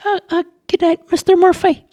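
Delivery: put-on a jumpy young guard yelling Stop; shouted high challenge. A narrator's reading. Charlie challenges a stranger at the barricade, high squeaky shout.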